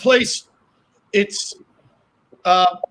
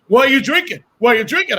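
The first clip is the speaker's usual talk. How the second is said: mildly indignant friend, pitched up; retold indignation; 3 semitones higher, faster than usual. Friend catching him drinking during Lent, mock indignant. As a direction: imitate a friend demanding an answer. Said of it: "a friend of mine got really angry".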